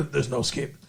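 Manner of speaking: lightly voiced creepy captor; Pit of Despair guy. Host plays along with co-host's Princess Bride comparison, mock creepy.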